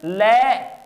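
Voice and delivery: ਲੈ with a dental L, tongue at the teeth; dental L demo. Shown as a demonstration. Teacher showing the letter's sound, dental ਲੈ. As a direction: sound out ਲੈ alone with a plain dental L. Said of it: "ਇਸ ਦਾ ਉਚਾਰਨ".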